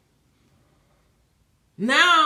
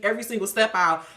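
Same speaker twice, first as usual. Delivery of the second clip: ordinary talk, nothing marked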